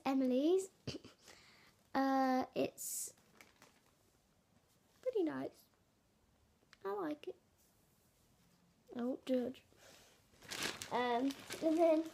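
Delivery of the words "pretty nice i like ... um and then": sick voice. Real, not acted. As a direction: voice worn from feeling ill. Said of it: "sorry if my voice sounds a bit".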